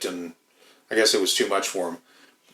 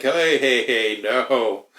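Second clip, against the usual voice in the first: raised voice, calling hey hey; a manager shutting down a remark; firm scolding; 2 semitones higher, much slower than usual. Retold or imitated. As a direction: cut an employee off sharply. Scolding a worker.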